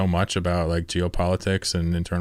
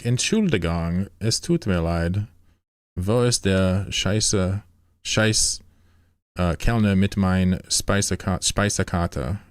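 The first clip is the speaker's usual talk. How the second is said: German with Russian accent; slower than usual. Shown as a demonstration. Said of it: "apparently I sound Russian".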